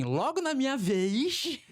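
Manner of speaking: high, slow, whiny "Logo na minha vez"; lamenting complaint. Retold or imitated. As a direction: drag it out like a grumbling lament. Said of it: "aquela frase que diz assim". (queixa arrastada e aguda, bem lenta)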